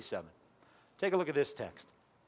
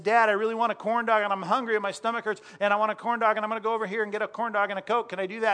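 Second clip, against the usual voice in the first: put-on higher, louder pleading child voice; whiny kid; 4 semitones higher, 3 dB louder, faster than usual. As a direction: beg like an excited hungry kid. Father retells son's corn dog plea.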